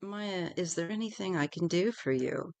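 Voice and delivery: a hint of a kind guide checking on her; quietly soothing offer of help. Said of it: "he said in a very soothing voice".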